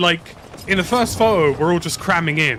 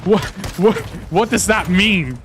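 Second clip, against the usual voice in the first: higher, louder, bewildered mock protest; retold confusion, pitched up and a bit loud; baffled asking; 3 semitones higher, 4 dB louder than usual. Passenger in cab asks driver what disco means, baffled. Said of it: "And I'm like".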